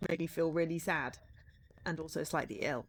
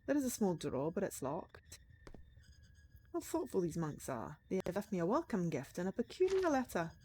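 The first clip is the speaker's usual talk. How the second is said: softer storytelling read than the chat; in-character game narration; 6 dB quieter than usual. Acted. Writer examining an unsettling painting, in-character narration.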